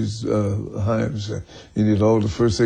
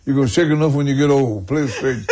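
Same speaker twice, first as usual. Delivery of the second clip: lightly acted teacher's telling-off, a bit higher; half-amused mock reprimand to a pupil; scolding music teacher; 3 semitones higher than usual. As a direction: imitate a strict teacher, with mild force. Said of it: "slap him on the finger and say".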